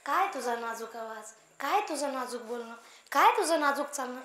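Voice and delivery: acted mother-in-law cajoling her daughter-in-law; coaxing mother-in-law. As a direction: coax softly, with a touch of mock admiration. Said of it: "सुनबाईला समजावून सांगते".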